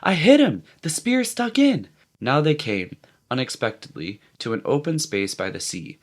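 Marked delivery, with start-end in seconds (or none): 0.0-1.9 excited. A narrator's reading. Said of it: "full of fright and apprehension and pride".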